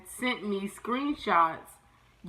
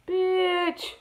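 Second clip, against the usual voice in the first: high, drawn-out exasperated "Bitch"; real exasperation; exasperated exclamation; 10 semitones higher than usual. Real, not acted. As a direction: let it burst out, fed up. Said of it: "That's how I feel right now".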